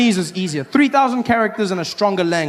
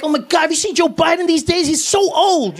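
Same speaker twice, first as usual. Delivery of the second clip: much higher gossiping voice; mocking gossip; 12 semitones higher than usual. People gossiping about Biden's age, high and mocking. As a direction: gasp it out, way up high. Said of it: "they were like".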